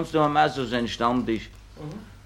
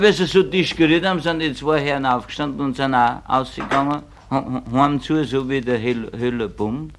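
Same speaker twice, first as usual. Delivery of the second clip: normal talking voice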